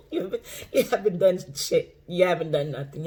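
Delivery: mock retort with a laugh in it. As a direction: tease them, chuckling. Laughing mock reply to commenter.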